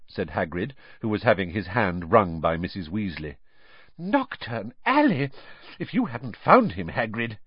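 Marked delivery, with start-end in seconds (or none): 4.0-7.4 aghast at the danger; alarmed mother. Acted.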